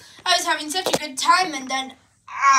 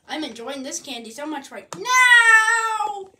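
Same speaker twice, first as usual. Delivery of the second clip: delighted; 4 semitones higher, 4 dB louder than usual. Acted. Delighted eating candy.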